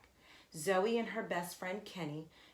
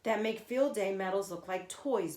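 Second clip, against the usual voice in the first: put-on bragging kid, loud and fast at first; boastful; 3 semitones higher, 5 dB louder than usual. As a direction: show off to the new kid. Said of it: "boasted Kat".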